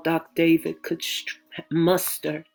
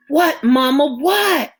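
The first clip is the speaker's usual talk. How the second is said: higher, louder anxious ask; anxious question; 6 semitones higher, 8 dB louder than usual. Acted. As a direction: ask in alarm. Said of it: "she asked anxiously".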